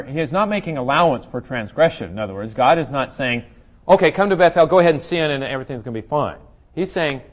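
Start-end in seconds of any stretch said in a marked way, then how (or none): 3.9-6.4 mock permission, raised high and loud; sarcastic God. Teacher voicing God's sarcasm toward Israel, mock-encouraging. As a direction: voice God's words with heavy irony. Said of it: "that's my definition of sarcasm".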